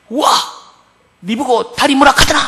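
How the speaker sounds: loud, high blurt in Gyeongsang dialect; gruff Gyeongsang man. Acted. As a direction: play a blunt Gyeongsang husband killing the mood. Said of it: "이 무뚝뚝한 사나이가 이렇게 얘기합니다".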